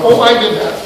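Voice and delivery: high, loud mock realization; sudden high-pitched admission, played up; inner voice. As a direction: pipe up high as the voice in your head. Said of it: "you'll go".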